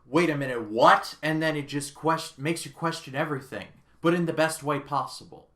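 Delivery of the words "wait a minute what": mock surprise. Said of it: "it's one of those things where it's like".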